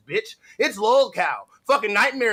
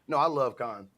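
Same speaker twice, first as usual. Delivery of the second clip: normal talking voice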